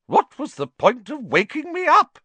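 high, loud indignant complaint; fluty, high-pitched huff; grumpy call. A narrator's reading. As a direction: call after someone crossly. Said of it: "called grumpily after him".

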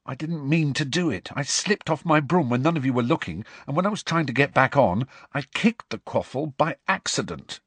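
plaintive, miserable explanation. Acted. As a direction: own up wretchedly. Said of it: "he whispered miserably".

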